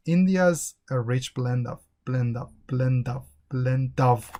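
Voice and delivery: "blend of" run together as "blen-dov"; connected speech. Shown as a demonstration. Teacher showing how they connect blend with of, linked. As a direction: link the d of "blend" onto "of". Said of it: "they connect blend with of".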